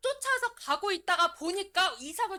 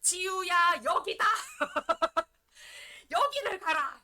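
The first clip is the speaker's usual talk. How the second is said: mock thunderous call with a laugh, louder; booming divine call; 4 semitones higher, 4 dB louder than usual. Pastor mocking how people expect God to call them, in a booming laughing shout. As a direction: boom out the command like a voice from heaven. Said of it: "귀를 통해서 쩌렁쩌렁하게".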